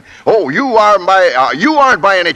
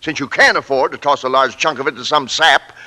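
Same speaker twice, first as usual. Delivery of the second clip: furious rant; 3 semitones higher than usual. Acted. Company president fuming to his radio announcer about contests, blustering anger. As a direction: fume and sputter at the pointless contests. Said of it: "is percolating furiously".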